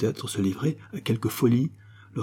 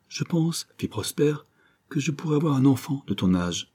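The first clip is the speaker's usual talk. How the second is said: higher, tender and touched; moved, tender; 5 semitones higher than usual. Acted. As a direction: speak it full of emotion. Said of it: "profonde émotion".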